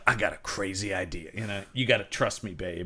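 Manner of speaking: hushed romantic reassurance; soft hero line. Retold or imitated. Hero's quote, softer.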